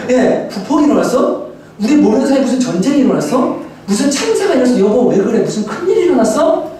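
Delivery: mildly alarmed rising questions; startled husband. Retold or imitated. Husband asking wife if disaster struck, startled. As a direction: retell a husband's mounting alarm. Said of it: "너무 놀래가지고".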